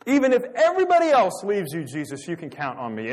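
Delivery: imitating a boastful disciple, high and loud, then settling; self-promoting boast. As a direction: start as a big loud boast, ease into assurance. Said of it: "Peter self-promotes".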